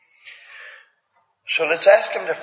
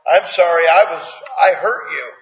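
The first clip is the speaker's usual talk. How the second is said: insistent parent coaching; 3 semitones higher, 5 dB louder than usual. Retold or imitated. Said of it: "So I'd say".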